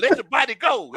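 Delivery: therapist. Retold or imitated. Friend retells counseling a slumping golfer, mock therapist. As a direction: counsel gently, as a pretend therapist. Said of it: "sitting here like a therapist".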